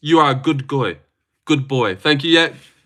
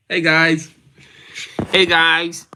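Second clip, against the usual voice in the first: a lightly put-on nice-boy hello, higher; mock wholesome greeting; 4 semitones higher, slower than usual. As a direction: greet chat like a squeaky-clean streamer. Mock clean-cut intro.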